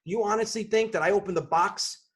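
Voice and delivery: mildly heated indignation; retold exasperated challenge; flipping out. Customer challenging the Apple support agent over a silly question, mildly indignant. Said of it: "flipped my shit".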